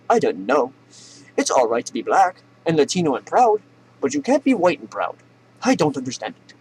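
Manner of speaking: aggrieved Southern spokesman, pitch swinging high; mock Southern accent. Klan spokesman defending the group, mock Southern accent. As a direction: plead innocence in a put-on Southern accent. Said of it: "stuck in the goddamn Southern accent".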